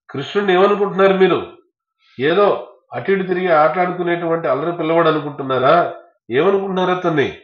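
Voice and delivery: high, loud outraged yelling; indignant shouting. Acted. Balarama furiously shouting about Krishna being tied up. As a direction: roar it out in protest at the injustice. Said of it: "గట్టి గట్టిగా అరుస్తున్నాడు బలరాముడు".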